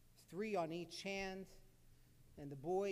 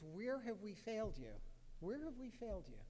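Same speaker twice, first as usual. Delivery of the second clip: higher-pitched, pained plea, lightly acted; retold crying; 4 semitones higher than usual. Rabbi weeping before his students, mildly acted tearful lament. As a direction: mildly imitate a rabbi pleading through tears. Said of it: "He's crying. He's crying".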